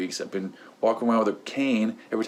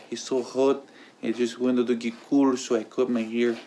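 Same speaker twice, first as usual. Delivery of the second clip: lightly put-on Pedro accent, barely off his own voice; a loose, mild stab at Pedro's accent; a hint of Napoleon Dynamite's Pedro, half-hearted accent; Pedro impression. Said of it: "that's my impression of it".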